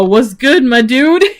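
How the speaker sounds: mock-casual dude greeting; casual bro greeting. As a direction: greet her like a buddy. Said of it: "just go".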